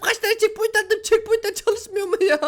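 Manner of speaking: high, exasperated complaint. Real, not acted. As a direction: rant in disbelief at the game. Checkpoints fail, exasperated. (yüksek perdeden isyan)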